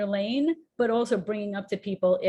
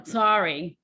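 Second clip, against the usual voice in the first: a second brusque "Sorry"; curt sorry; 3 dB louder than usual. Shown as a demonstration. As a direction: toss off "Sorry" again, a bit louder. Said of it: "you know".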